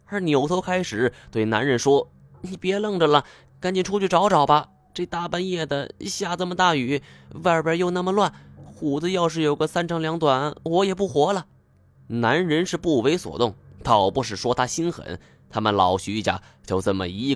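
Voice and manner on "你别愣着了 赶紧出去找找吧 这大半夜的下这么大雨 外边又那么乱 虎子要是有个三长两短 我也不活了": high, pleading farm wife; distraught mother. A narrator's reading. Mother begging husband to find son, high and frantic. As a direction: beg him urgently in a high woman's voice.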